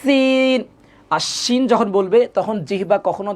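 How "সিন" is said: সিন with a dental s, tongue against the teeth; higher, held সিন with a clear s; sharp sin. Shown as a demonstration. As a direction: demonstrate সিন with an s, not sh. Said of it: "জিহ্বাটা দাঁতের সাথে লাগবে".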